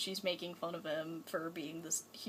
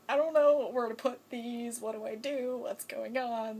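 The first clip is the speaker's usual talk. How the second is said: flustered; 3 semitones higher, 7 dB louder than usual. Retold or imitated. The Doctor flustered by the kiss.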